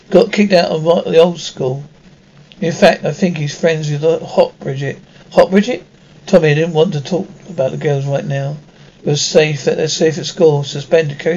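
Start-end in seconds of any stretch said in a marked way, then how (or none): 5.3-5.8 higher, louder outraged echo; bristling at the word hot; indignant surprise. Acted. Dad hears daughter called hot.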